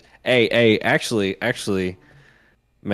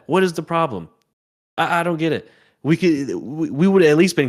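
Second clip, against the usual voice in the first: frustrated rant; 2 semitones higher than usual. Real, not acted. Rant at the coach.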